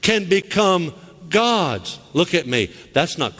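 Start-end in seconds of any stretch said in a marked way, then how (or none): 0.0-2.0 slow, high mock voice, drawn out; mocking Mormon claim. Preacher mocking what Mormons say, slow high drawl. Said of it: "They say".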